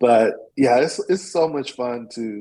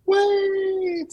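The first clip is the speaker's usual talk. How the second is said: much higher, drawn-out angel call. Acted. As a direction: call it out high and long like the angel. Angel dives again.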